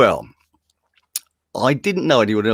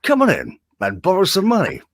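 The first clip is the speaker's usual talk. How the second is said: mock local radio commercial voice; hammed-up voice-over announcer; over-the-top showreel presenter. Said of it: "of course I'm being over the top".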